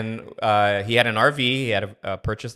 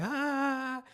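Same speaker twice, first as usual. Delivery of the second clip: imitated laugh; 8 dB quieter than usual. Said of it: "you hear his tío laughing like".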